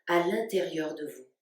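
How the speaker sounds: calm, spacious delivery with long pauses between phrases; guided meditation. Real, not acted. Yoga teacher guiding listeners to stay awake while the body sleeps, guided meditation. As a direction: lead them unhurriedly into rest, phrase by phrase. Leads a yoga nidra relaxation.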